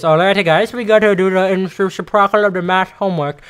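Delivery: mock garbled teacher talk; hammed-up confusing math teacher; imitating the teacher. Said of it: "she talked to you like this".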